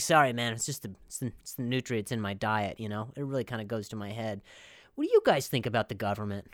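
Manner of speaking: quiet, spaced-out tiger voice; lightly voiced stoned tiger. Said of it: "That's my tiger voice".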